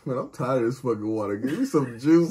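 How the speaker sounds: low, soft grumbling fish; imagined fed-up fish. Pretend. Reactor joking as a fish sick of water, grumbling. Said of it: "imagine being a fish and be like".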